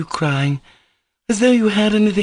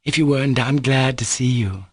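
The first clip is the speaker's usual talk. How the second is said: amused teasing; 4 semitones higher than usual. Acted. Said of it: "I can't help laughing at you".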